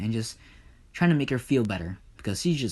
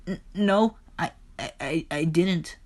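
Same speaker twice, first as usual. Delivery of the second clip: stammering, higher-pitched protest; nervous denial; 7 semitones higher than usual. Acted. Persephone denies the affair to Zeus, nervous stammer. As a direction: trip over the words nervously.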